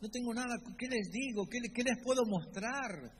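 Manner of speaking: a hint of a worried Moses; Moses' anxious excuse. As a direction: voice a reluctant Moses fretting. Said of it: "Él está diciendo".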